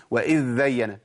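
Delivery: وإذ زين with a doubled dhal; تقليد خطأ بالذال; imitated error. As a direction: mimic idhdhayyana. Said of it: "أسمع حد بيقول".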